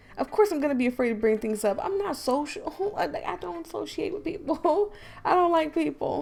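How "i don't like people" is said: higher, louder, joking tone. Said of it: "I'm kidding".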